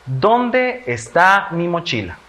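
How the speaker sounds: slow, high question with "Dónde" stressed. Shown as a demonstration. Teacher reads a sentence for children to classify, slow questioning. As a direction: ask slowly and deliberately, leaning on "Dónde". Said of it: "estoy preguntando".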